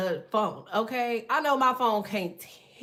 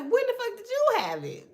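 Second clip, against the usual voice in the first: mock shocked; 12 semitones higher, 3 dB louder than usual. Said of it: "I was like".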